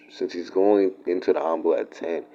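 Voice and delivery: thinking aloud in a whisper; hushed aside while working out the timeline. Real, not acted. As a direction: whisper it to yourself mid-thought. Muttered aside while planning.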